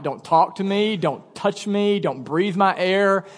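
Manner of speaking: mildly voiced sleepy crankiness, slowing down; cranky wife, imitated. Pastor imitates his sleepy wife, mildly cranky. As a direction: imitate a cranky wife warning you off, understated. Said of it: "she gets really cranky".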